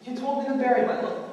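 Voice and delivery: indignant protest. Acted. Protests to the friar.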